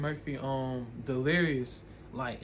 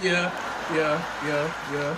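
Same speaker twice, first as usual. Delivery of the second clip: loud phony agreeing; falsely sociable yeahs; fake agreeable voice; 5 dB louder, slower than usual. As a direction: agree along in a put-on voice. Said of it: "I don't even talk like that".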